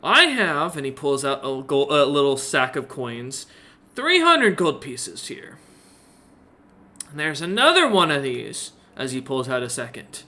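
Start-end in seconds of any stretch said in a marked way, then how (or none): 0.0-0.8 witty period banter. Acted. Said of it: "he smiles up at you and goes". 4.0-8.7 merchant voice. Acted. Merchant offers gold.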